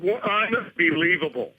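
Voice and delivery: slow, drawn-out disbelief; exasperated. Real, not acted. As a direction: let the disbelief hang. Host exasperated.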